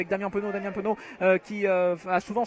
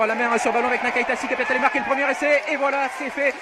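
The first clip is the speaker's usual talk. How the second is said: try call; 4 semitones higher than usual. Real, not acted. Commentator calls the try.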